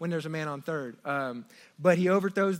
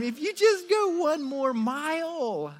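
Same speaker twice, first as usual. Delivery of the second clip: gentle voice of God; 10 semitones higher, slower than usual. Acted. God voiced in sermon illustration.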